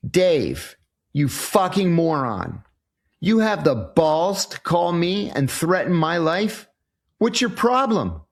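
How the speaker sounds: rising indignant rant, pitch climbing high; angry telling off. Retold or imitated. Voicing his angry text to the drunk caller, indignant. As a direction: tear into the caller who threatened him.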